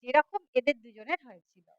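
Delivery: lively, dramatic storytelling voice; story narration. A narrator's reading. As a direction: tell the tale with rising and falling suspense. (নাটকীয় ভঙ্গিতে গল্প বলা)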